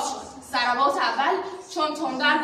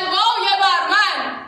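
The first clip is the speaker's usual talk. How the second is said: anguished cry; 4 semitones higher, 4 dB louder, slower than usual. Acted. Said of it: "فریاد زد".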